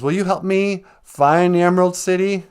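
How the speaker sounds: put-on high, loud girlish-pitched request; pleading Dorothy. Dorothy asking the scarecrow for help, high pleading voice. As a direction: ask up high in a mock-Dorothy voice.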